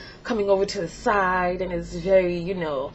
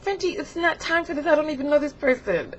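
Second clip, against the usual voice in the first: higher, exasperated reasoning; mock pleading; 5 semitones higher than usual. Begging Frenchie to wait, high and exasperated. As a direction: reason anxiously with someone unruly.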